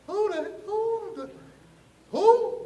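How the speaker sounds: high, drawn-out incredulous who; stunned disbelief. Retold or imitated. Acting out shock at caller's name.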